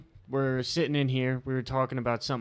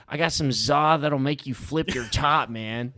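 lightly put-on white-guy voice, a bit punched up; a hint of a white dude tagline voice; really white voice; 3 semitones higher, 4 dB louder than usual. Trying out a joke tagline for friends, lightly put-on white voice. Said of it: "in a really white voice".

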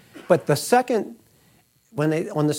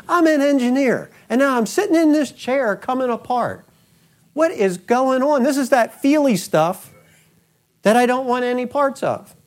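much higher and louder, racing and rattled; an engineer panicking at his own reaction; agitated inner voice; 8 semitones higher, 4 dB louder than usual. Retold or imitated. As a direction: sound like your mind is coming apart. Retold panic during prayer.

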